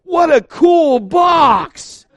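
put-on high, loud, slow kid's shout of delight; excited little kid. Pastor imitating his four-year-old son thrilled by a box. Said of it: "He's, like, four and goes".

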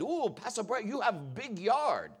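imitated Korean accent, softened. Korean lady admiring the pastor's yard, imitated Korean accent. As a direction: do a lilting "Ooh" into a Korean accent. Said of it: "a lady that was Korean".

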